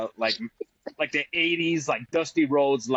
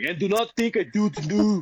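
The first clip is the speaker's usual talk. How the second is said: put-on Scottish accent, pitched higher; 5 semitones higher than usual. Speaker tries out a line in an accent: doing a Scottish accent. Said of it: "I'm doing a Scottish accent".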